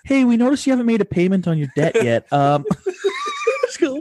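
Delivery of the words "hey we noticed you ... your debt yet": higher-pitched, mildly mock yell; imitating a teller calling out; teller calling back. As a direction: call after a departing customer in a raised pitch. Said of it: "she yells back and she's like".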